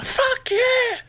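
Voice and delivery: snapped out, pitch leaping very high; sudden scream. Retold or imitated. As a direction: bark it mid-sentence as if startled. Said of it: "I just started screaming".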